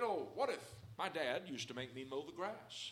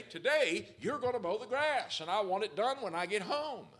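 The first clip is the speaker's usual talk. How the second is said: louder, higher commanding father; stern dad's order; 5 semitones higher, 13 dB louder than usual. Retold or imitated. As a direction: lay down the law to a lazy son. Dad ordering son in story.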